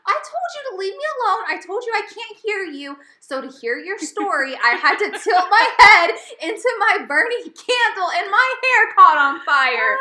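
high, loud, fast rant through a laugh; exasperated scolding. Retold or imitated. Wife scolds boyfriend over burnt hair, loud high laughing rant. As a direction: lay it all on him, laughing in disbelief. Scolding Joe in retold quarrel.

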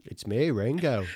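badly faked British accent; mock British lilt; a famous drummer. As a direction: announce it as a dopey Liverpool drummer. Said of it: "so I could be Ringo".

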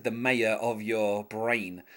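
"mayor of your brain" drawn out slowly; odd pronunciation. Retold or imitated. Host quotes a singer's lyric, odd pronunciation of "mayor of your brain". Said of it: "pronouncing some words a little odd".

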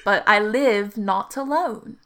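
slow, measured riddle with lingering key words; riddle recital. Acted. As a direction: pose the riddle deliberately, word by word. Repeats riddle in character.

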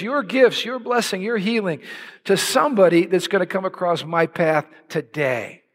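offering yourself to God; earnest prayer. Acted. Demonstrates his morning prayer of surrender.

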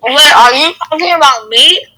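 chewing while talking; talking through a mouthful of food; mouth full. Real, not acted. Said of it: "You're chewing right now".

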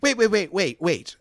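wait, wait, hold on, she can't believe it; stunned disbelief. Acted. Val stunned by the news.

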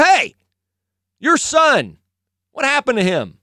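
loud, high-pitched interrogation; demanding questioners. Acted. Officials question the healed man's parents about their son, demanding. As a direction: play pushy officials demanding answers. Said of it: "They go".

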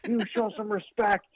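a hint of an angry wrestler defending his fan; retold angry defense. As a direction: stand up for your little fan, mock stern. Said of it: "And he's like".

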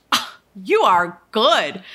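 slow, mock-amazed praise. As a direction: drag it out in mock awe. Mock amazement at psychic agent.

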